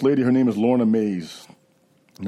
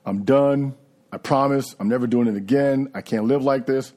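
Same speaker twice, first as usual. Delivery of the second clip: sincere promise; 3 semitones higher than usual. Retold or imitated. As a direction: retell a heartfelt promise to quit. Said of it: "I sincerely meant that I was done".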